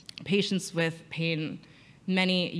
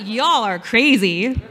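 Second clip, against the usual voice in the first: laughing remark; 3 semitones higher, 9 dB louder, slower than usual. Retold or imitated.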